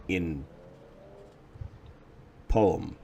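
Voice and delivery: ordinary talk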